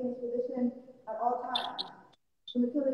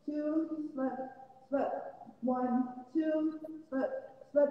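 boxing coach calling combos; much slower than usual. Shown as a demonstration. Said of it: "So let's try one, two, slip, slip three times".

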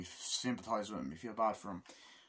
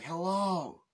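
higher, put-on agent voice; hammed-up higher-voiced official; imitating the CIA agent; 5 semitones higher than usual. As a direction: play the cocky agent. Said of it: "he's like".

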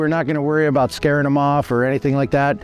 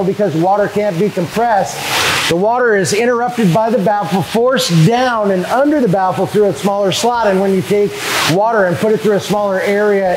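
raised voice over noise; 4 dB louder than usual. Real, not acted. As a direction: push your voice over the roar of pumps. Talking over loud hatchery equipment.

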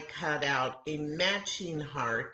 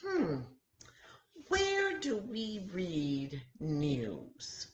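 slow musing question; mock wondering; 3 semitones higher, slower than usual. Teacher acting out her own thinking for the children, slowly. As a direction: puzzle over it aloud, drawn out. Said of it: "And I thought".

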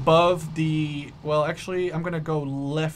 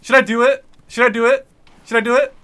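excited; 7 semitones higher, 5 dB louder than usual. Real, not acted. About to launch an attack.

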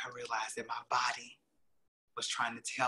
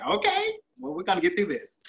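laughing; 12 semitones higher, 8 dB louder than usual. Retold or imitated. Laughing, mocking nurse's reassurance.

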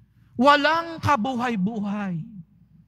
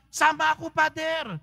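lightly higher, eager parishioner; mock eager; 6 semitones higher than usual. Priest imitates a parishioner wanting to join the party, mock eager. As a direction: toss it off like a keen churchgoer.

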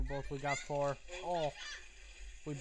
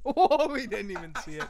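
laughing while talking; 4 dB louder than usual. Real, not acted. Laughing at missing it.

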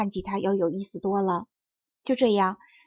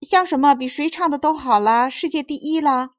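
higher, louder, eager crab leader; head crab; 5 semitones higher, 6 dB louder than usual. A narrator's reading. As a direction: angle for bigger praise as the lead crab. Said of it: "头领螃蟹的声音". (头领螃蟹高声讨夸奖)

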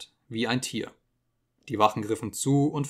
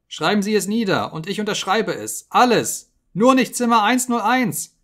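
high, loud panicked begging; desperate pleading scream; 9 semitones higher, 7 dB louder than usual. Acted. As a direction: plead for your life, voice cracking upward. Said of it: "schrie er".

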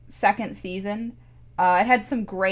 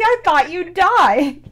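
breathless slow whisper, high and loud; the dog gasps it in disbelief; reunited dog whispering in shock; dog's whisper; 8 semitones higher, 8 dB louder, slower than usual. Retold or imitated. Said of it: "She's like".

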